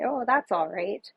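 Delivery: ordinary talk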